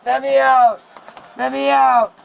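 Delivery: loud repeated demand; yelling. Real, not acted. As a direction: shout to be let out. Woman demands release from car.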